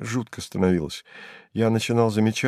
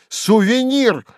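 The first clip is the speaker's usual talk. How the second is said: call out; 12 semitones higher, 5 dB louder, slower than usual. A narrator's reading. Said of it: "закричал я".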